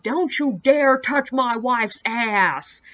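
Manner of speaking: mild mock yell, drawn-out words; retold angry scream. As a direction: imitate an outraged husband, slow and emphatic. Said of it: "starts screaming at these guys about".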